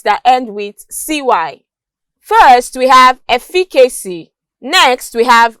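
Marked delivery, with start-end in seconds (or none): 3.3-4.3 "efficacy" stressed on FI; second-syllable stress. Shown as a demonstration. Teacher illustrating the C Y rule, "efficacy" stressed on its second syllable. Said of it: "stressed on their second syllable".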